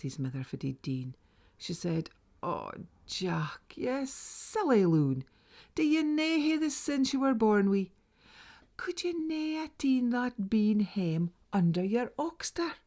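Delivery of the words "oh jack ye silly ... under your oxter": higher, louder exasperated mother; scolding mother. Acted. Mother scolds Jack again for the ruined bean, exasperated and louder. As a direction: give the silly loon a proper telling-off.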